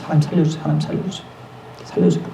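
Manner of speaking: soft, fearful pleading to God; retold frightened prayer. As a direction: beg quietly for your life. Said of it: "하나님한테 계속 기도해요". (하나님께 살려달라고 조용히 애원하는 목소리)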